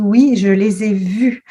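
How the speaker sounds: slow, drawn-out insistence, imitating her; insistent. Witness quoted pointing to her eye, mildly insistent. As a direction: press each word of "je les ai vus", slowly. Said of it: "en insistant vraiment".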